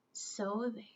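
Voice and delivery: whispered taunt; smug whispered tag-on; whispered smug so there. Acted. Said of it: "Then she added".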